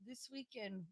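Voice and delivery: halting, deliberately vague; mother talking in code. Retold or imitated. Mother hints at weekend plans to grandmother, imitated coded talk. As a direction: pause between each vague phrase. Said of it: "you'll have my mother go".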